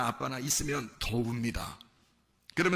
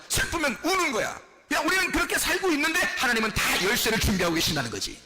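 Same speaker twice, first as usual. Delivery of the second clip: raised, forceful preacher's voice; emphatic preaching; 10 semitones higher, 4 dB louder than usual. Acted. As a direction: drive each point home to the congregation. (힘주어 설교하는 목소리)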